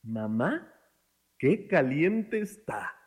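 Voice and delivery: high drawn-out "¡Ay!", then slowly sung-out complaint; grito de demostración. Shown as a demonstration. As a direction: demonstrate a big yelp for children to copy. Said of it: "gritan muy fuerte". (grito agudo de demostración)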